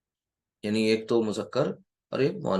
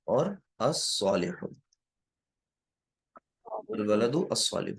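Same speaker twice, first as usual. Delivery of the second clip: slow model reading; 2 semitones lower, 4 dB quieter, slower than usual. Shown as a demonstration. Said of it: "teacher models the Arabic phrase".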